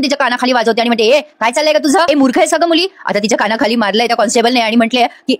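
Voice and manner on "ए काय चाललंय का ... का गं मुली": higher-pitched mock telling-off; acted scolding. Constable to prisoner caught harming herself, acted scolding. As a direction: imitate an indignant reprimand, pitch up.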